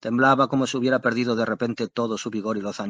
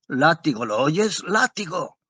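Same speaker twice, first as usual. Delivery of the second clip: urgent shout; 4 semitones higher, slower than usual. A narrator's reading. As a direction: bark at the coachman to whip the horses. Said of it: "gritó de pronto". (grito urgente al cochero)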